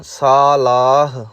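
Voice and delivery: ਸਾਲਾਹ with a long open ਸਾ, not ਸਲਾਹ; long first vowel. Shown as a demonstration. Teacher corrects students: ਸਾਲਾਹ, long vowel. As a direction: draw out the kanna in ਸਾਲਾਹ. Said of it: "ਸਲਾਹ ਨਹੀਂ ਕਹਿਣਾ".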